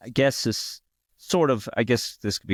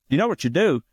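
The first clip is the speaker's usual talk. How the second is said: bar player voice; 7 semitones higher, 3 dB louder, faster than usual. Retold or imitated. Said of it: "he talked like that, of course".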